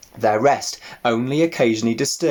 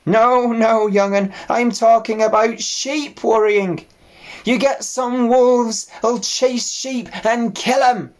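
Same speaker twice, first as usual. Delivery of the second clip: put-on old ewe voice; 12 semitones higher, 5 dB louder than usual.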